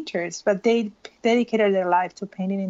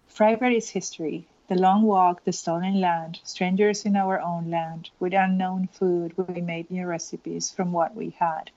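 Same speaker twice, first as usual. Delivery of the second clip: poem reading. Acted. Reads verses from the book.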